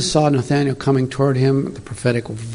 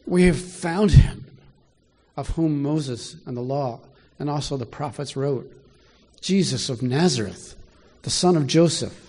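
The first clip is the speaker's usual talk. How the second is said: excited; 2 semitones higher, 4 dB quieter than usual. Acted. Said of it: "I can hear the excitement".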